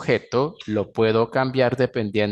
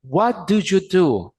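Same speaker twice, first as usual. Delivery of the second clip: lifted question; 8 semitones higher than usual. Shown as a demonstration.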